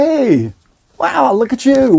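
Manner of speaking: high, bright retold greeting of fake surprise; put-on surprise at seeing him here; mock surprise. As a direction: act startled to bump into him. Feigned surprise greeting at party.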